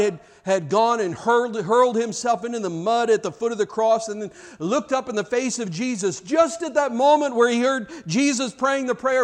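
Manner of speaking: ordinary talk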